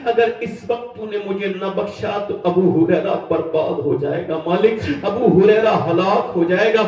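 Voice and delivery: pleading prayer. Acted. Preacher voices dying man's prayer.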